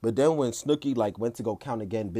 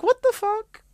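much higher, louder scandalised shriek; retold outraged scream, pitched way up; shrieked outrage; 7 dB louder, slower than usual. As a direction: scream it in disbelief. Outraged at extra chops.

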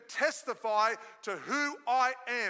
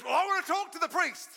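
higher-pitched, eager mock voice; imitating eager woman; 7 semitones higher, faster than usual. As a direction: pipe up like you want your turn. Voices eager woman wanting a turn.

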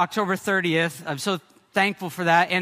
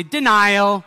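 loud mock chorus of sharks; 6 dB louder than usual. Sharks mocking Marlin in retold film.

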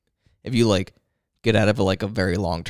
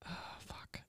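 whispered curse; 25 dB quieter than usual. Real, not acted. Stumped on German word.

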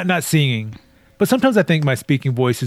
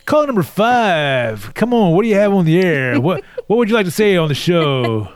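talk show host; 3 semitones higher than usual. Pretend. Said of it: "It's your talk host voice".

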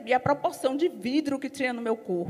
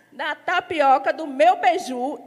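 longing laugh; 2 semitones higher, 6 dB louder, slower than usual. Real, not acted. Laughing recalling Christmas food.

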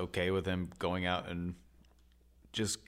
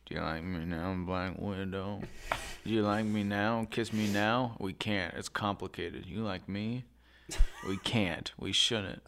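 mock romantic Hawkeye; 4 dB quieter than usual. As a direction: whisper it like awkward romance. Voicing Hawkeye courting Black Widow.

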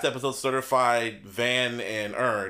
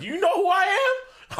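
higher, louder mock-indignant demand; rapper impression; 4 dB louder, faster than usual. Host re-enacting a rapper's famous line, mock indignant. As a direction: fling the question like a star. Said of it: "I was like".

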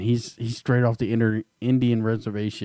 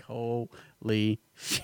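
drawn-out amazement; 4 dB quieter, much slower than usual. Retold or imitated. Retells own stunned reaction.

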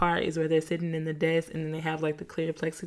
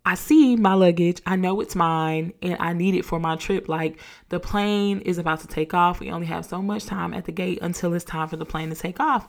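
insistent, a bit louder at the start; mild retold irritation, pushing hard; irritated; 3 dB louder than usual. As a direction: press the clerk to hand the bag back. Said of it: "a little irritated because I'm like".

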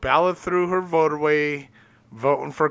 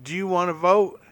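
higher-pitched coaxing question to a pet; talking to a dog; 4 semitones higher than usual. Retold or imitated. Owner asking his dog Bella about voting, pitched-up pet talk. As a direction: ask your dog, pitched up.

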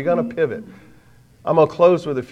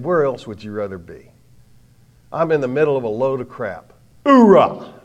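cheerful grunt shouting hoorah; loud gung-ho soldier; 5 dB louder than usual. Retold or imitated. Paul quoted, gung-ho soldier.

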